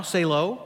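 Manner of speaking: "Selo" said as SAY-lo; butched-up name. Shown as a demonstration. Joking to boys named Selah, "Selo" as SAY-lo. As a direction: end "Selo" on a long o. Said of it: "Maybe you could butch it up".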